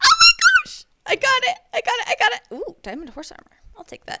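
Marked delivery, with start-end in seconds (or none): 0.0-2.4 shrill, very high, loud excited squeal of delight. Streamer getting an item in a game, reacting to viewers: excited squeal.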